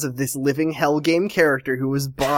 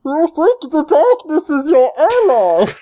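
menacing high villain growl; 11 semitones higher, 5 dB louder than usual. Pretend. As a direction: quote it like a movie villain. Bane movie quote impression.

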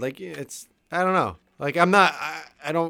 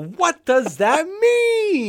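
laughing; 11 semitones higher, much slower than usual. Real, not acted. Laughing disbelief at the quote.

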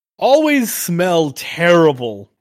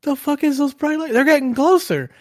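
deer voice; 10 semitones higher than usual. Retold or imitated. Deer voicing approaching car.

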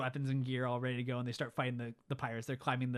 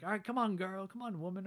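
pirates' mock taunt; 5 semitones higher than usual. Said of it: "They're like".

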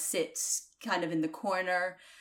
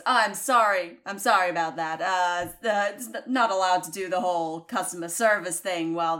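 barkeep voice forgotten; 4 dB louder than usual. Acted. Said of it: "forget about the voice again".

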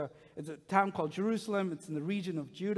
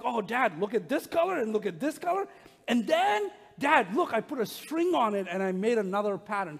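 put-on higher and louder, tumbling kid chatter; excited son; 4 semitones higher, 6 dB louder than usual. Son showing the string he added, loud and thrilled. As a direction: bounce with a child's thrill. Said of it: "And he's like".

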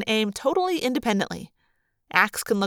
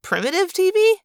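"Primitive T V?" much higher and louder, rising in outrage; higher, louder "Primitive T V?" with a sharp rise; offended disbelief; 11 semitones higher, 4 dB louder than usual. A narrator's reading. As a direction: repeat "Primitive T V?" as an indignant question. Marco repeats the insult.

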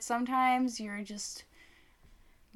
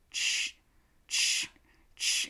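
dragging noise; much slower than usual. Retold or imitated. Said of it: "she's dragging this box".

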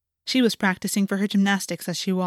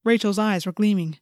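plain reading voice

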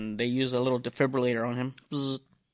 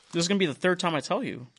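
exasperated; 6 semitones higher, faster than usual. Retold or imitated. Friend keeps forgetting the call.

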